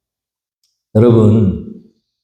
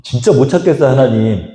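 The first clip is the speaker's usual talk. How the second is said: frustrated plea; 5 semitones higher than usual. Acted. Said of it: "그랬다고요".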